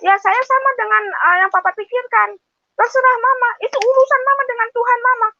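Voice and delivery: mimicking the child's dismissive answer, high; child's reply. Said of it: "Anak saya malah, malah bilang gini".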